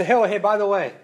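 casual by-the-way tone; afterthought. Pretend. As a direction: toss it over the shoulder. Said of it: "he would say".

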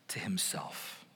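whisper. Real, not acted. Sermon climax drops to whisper.

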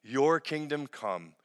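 slow, measured prayer lead; Lord's Prayer. Acted. Pastor leading the online congregation in the Lord's Prayer, slow and measured. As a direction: pray it slowly, leading the people.

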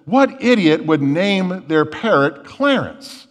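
slow, lightly acted disbelief; incredulous burglar. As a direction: draw out the burglar's scornful question. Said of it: "the burglar thinks for a second".

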